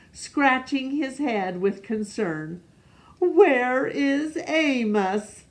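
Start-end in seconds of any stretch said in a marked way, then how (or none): 3.2-5.4 wondering animals. Acted. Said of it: "the animals all wondered".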